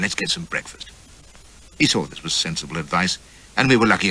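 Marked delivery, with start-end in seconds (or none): 0.0-0.9 breezy. A narrator's reading. Brisk callous suggestion.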